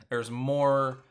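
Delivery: trying to resume through a real laugh. Real, not acted. Host hearing his son yell from another room, laughing. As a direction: break into a laugh mid-thought. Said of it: "I'm sorry, I'm laughing".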